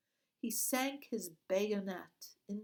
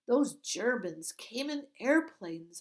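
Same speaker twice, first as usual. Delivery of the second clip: high, loud, bright-eyed question; eager girl; 4 semitones higher, 8 dB louder than usual. Acted. Girl distracts the guard, eagerly high and loud.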